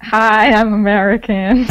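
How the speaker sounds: a quick mock American greeting, said slowly; American accent. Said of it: "can you do an American accent".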